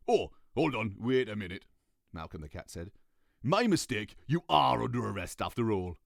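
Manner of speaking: a cat letting them off; lightly voiced cat. Malcolm voiced.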